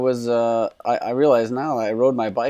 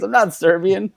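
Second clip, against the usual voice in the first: much higher, loud protest; indignant protest; 10 semitones higher, 6 dB louder than usual. Retold or imitated. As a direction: squeal the denial. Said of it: "He goes".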